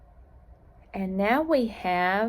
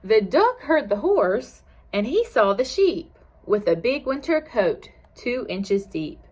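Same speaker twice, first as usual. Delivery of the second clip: lilting picture-book narration; reading to children. A narrator's reading. Teacher reads a farm story to children, lilting. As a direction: read the rhyme aloud with a gentle swing in pitch.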